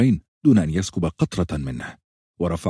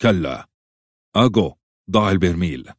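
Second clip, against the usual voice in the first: sharp tone; 4 dB louder than usual. A narrator's reading. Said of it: "بنبرة حادة".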